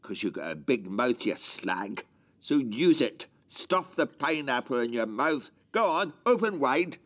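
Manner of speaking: menacing father giving orders; bully him with a building threat. Acted. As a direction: menace that rises in pitch at the end. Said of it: "You were very menacing".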